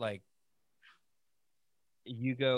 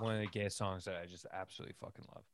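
mouth full; 3 semitones lower, 5 dB quieter, faster than usual. Real, not acted. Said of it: "Sorry, I'm eating a Pop-Tart".

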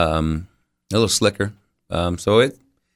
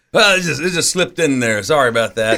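mock innocent excuse; 5 semitones higher than usual. Acted excuse to program director.

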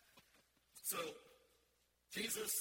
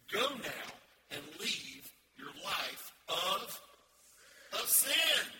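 commanding call; 7 dB louder, slower than usual. Acted. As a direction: proclaim it like Jesus sending her away. Jesus voiced commanding the sinner.

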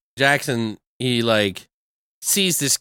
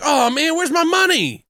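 high-pitched imitated outcry at an empty wallet; hammed-up indignant discovery; mock dismay; 4 dB louder than usual. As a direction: wail it in comic alarm. Jackson finds the money gone.

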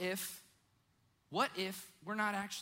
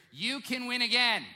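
emphatic repeat; 4 semitones higher, 7 dB louder than usual. Shown as a demonstration. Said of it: "I'm gonna say it again".

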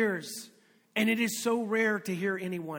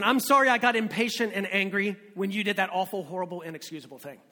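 crummy apology; faster than usual. Acted. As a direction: start apologizing, then slip into muted blame. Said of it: "what crummy apologies sound like".

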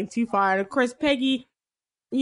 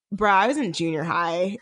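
agent's deadpan comeback; 6 semitones lower than usual. Retold or imitated. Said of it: "the black guy's like".

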